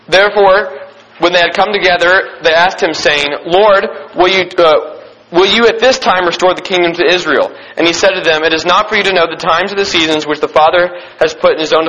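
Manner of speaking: measured, formal Bible reading voice; scripture reading. Acted. Pastor reading scripture to his youth group, in a measured reverent reading voice. Pastor reads Acts aloud.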